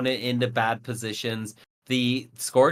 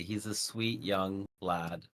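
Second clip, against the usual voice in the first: mock sweet; 4 semitones lower, 11 dB quieter, slower than usual. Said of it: "No, I'm kidding".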